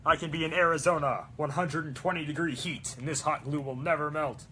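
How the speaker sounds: mock cocky promise; overconfident. Mocking her past self's hot glue boast, smug. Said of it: "I was like".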